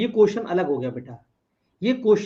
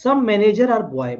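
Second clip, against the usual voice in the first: slow statement read; much slower than usual. Shown as a demonstration. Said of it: "reading the statement slowly".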